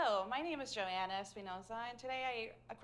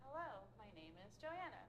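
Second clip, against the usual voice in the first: lower, softer, resonant chest voice; student finding a more resonant tone; 10 dB quieter than usual. Shown as a demonstration. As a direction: speak it from the chest. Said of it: "That was a lot more resonant".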